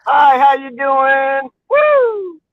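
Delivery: slow, drawn-out shout to a passerby; calling out. Real, not acted. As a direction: holler a greeting across the street. Shouting greetings out car window.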